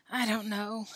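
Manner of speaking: mild, resigned answer; a touch of a sigh; sighed reply. Acted. Billy answering Tom over the worm, mildly sighed. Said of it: "sighed Billy".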